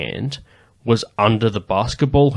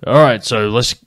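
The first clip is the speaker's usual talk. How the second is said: put-on theatrical Australian accent. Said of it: "Australian accent that you would see in a theatre".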